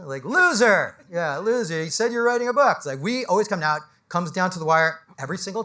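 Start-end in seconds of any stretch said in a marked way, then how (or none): 0.2-2.8 mock jeering. Imagined public humiliation by hecklers.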